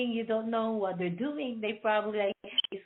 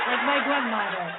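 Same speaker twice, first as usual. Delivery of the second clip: put-on a touch of a cranky old lady, laughing; laughing mock-stern grandma; mean grandmother voice; 4 dB louder than usual. Shown as a demonstration. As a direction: play the mean grandmother lightly. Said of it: "like a mean one".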